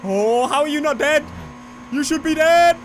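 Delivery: high, rising wail; exasperated disbelief. Real, not acted. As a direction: cry it out at a rival who won't quit. Rival survives a crash.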